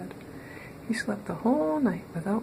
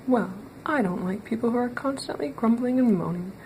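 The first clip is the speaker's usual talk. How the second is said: stern wizard; 4 semitones higher than usual. Acted. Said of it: "said the wizard".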